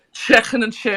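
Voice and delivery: attempted Scouse accent; Liverpool accent. Shown as a demonstration. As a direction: have a go at a put-on Liverpudlian accent. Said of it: "I've been working on my Liverpool".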